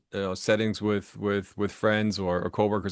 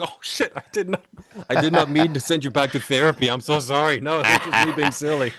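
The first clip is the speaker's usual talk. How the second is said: retold panicked apology; 7 semitones higher, 7 dB louder than usual. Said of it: "I'm like".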